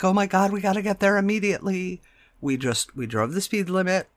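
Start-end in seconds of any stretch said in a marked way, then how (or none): 0.0-2.0 rushed, higher frantic hurry; mock panic. Mother mocking a frantic rush to the scene, fast and higher. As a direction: rattle it off like a panicking driver. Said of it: "not like".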